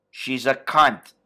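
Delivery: low, slow, flat mob boss line; Tony Soprano. Retold or imitated. Tony dismissing Adriana to Christopher, low and slow. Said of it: "And Tony says".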